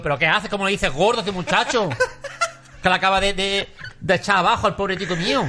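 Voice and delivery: scolding referee, laughing through it. Retold or imitated. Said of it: "yo soy el árbitro y le digo".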